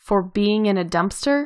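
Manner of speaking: ordinary talk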